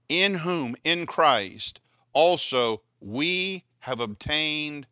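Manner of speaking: loud, steady Bible reading; scripture reading. Acted. Preacher reading Ephesians to the congregation, loud scripture reading. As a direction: read the verse out firmly to the room.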